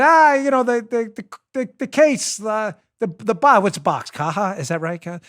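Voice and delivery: halting, fumbling for the word; groping for words. Retold or imitated. Host re-enacts hunting for Spanish for cooler, groping. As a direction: stammer through a half-known word, checking as you go. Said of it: "I didn't know how to say it".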